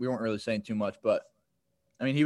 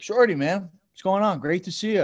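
lightly acted friendly hello, pitched up; chummy greeting; 6 semitones higher than usual. Opposing player chats up the nervous rookie, chummy greeting. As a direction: imitate an over-friendly opponent. Opponent greets him chattily mid-play.

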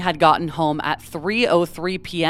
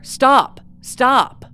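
retold shouted stop; 6 semitones higher, 5 dB louder than usual. Reading the victim's quotes.

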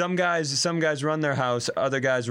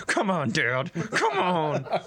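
put-on whiny kid; 5 semitones higher, slower than usual. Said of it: "I might as well have been".

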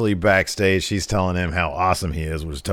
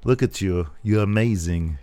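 put-on light Austrian accent, softer; a touch of Arnold, understated; Arnold Schwarzenegger impression; 4 dB quieter than usual. Lashley praising Lana in a mild Arnold accent. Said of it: "I'm talking like Arnold".

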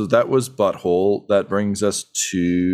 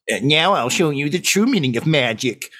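higher, sinister Emperor impression; Palpatine voice; 5 semitones higher than usual. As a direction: hiss it like a Sith lord. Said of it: "Palpatine poses".

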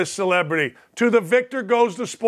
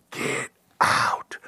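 whispered, softer get out; 4 dB quieter than usual. Pretend. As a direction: breathe it out spooky. Segment catchphrase.

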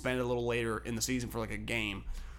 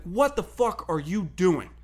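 mock chirping; 4 semitones higher, slower than usual. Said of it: "starts kinda chirping at him".

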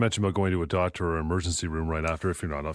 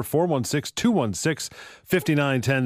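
slow number read; 5 semitones higher, slower than usual. Real, not acted. Host reading phone number.

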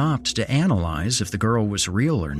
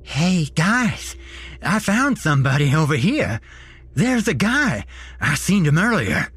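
loud, high-pitched character voice; calling out; 8 semitones higher, 3 dB louder than usual. Acted. Homeless man alerting the cult to the hidden watcher, loud high call. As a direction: holler it over to the group.

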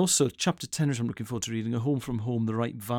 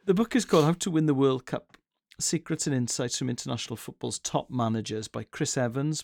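excited. Real, not acted. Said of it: "You sound like you're really excited".

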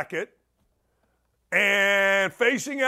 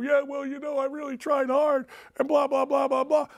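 mock apology; 6 semitones higher than usual. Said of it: "I'm not gonna sit there and go".

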